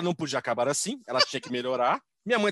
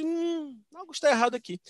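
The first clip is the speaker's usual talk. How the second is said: dawning suspicion; 9 semitones higher than usual. Retold or imitated. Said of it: "alguém se deu conta".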